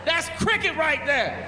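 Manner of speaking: high, slow rough street voice, drawn out; street guy impression. Comedian imitating a witness on a crime show, high and drawn out. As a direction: play the old neighborhood witness. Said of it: "That's a perfect fucking impression".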